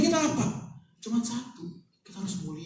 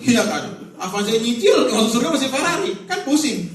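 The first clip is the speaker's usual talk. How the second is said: laughing; 6 semitones higher, 9 dB louder than usual. Real, not acted. Congregation joke about Ferrari.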